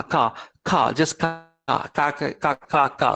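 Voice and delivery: "car" as an open "kah", R left silent. Shown as a demonstration. Teacher drilling the British sound, "car" said "kah". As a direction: repeat "car" with no R at the end. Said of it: "the Britishers will say".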